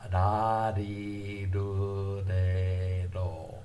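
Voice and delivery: "Ra, ri, ru, re, ro" with a light flap between d and l, drawn out and sung; Japanese flapped r. Shown as a demonstration. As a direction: tap each r lightly, like a blend of d and l. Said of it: "the pronunciation of the R merits a special mention".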